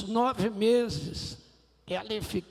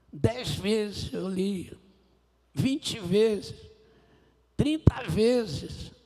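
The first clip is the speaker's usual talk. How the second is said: crescendo; 5 dB louder, much slower than usual. Retold or imitated. Conta as repetições da leitura.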